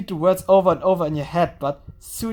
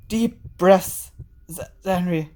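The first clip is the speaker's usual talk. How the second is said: soothing; slower than usual. Acted. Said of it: "A soothing voice echoes".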